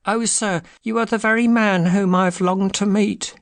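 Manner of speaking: high-pitched, agitated little man; eager cry. A narrator's reading. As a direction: gush in a high, put-on voice. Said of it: "cried the little fellow".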